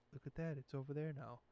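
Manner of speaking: unexcited reporter, softly understated; underreacting reporter. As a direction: play down the shock as an unfazed reporter. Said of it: "She wasn't like, "What?".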